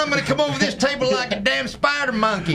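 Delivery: high, wired Ricky Bobby impression; movie quote voice. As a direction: yell it like a hyped-up racecar driver. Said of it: "you guys all know the lines to the same movie".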